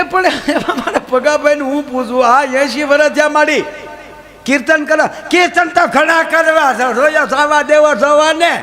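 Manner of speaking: put-on old woman scolding about her husband. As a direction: squeak it out like a cranky old lady. Old woman arguing back.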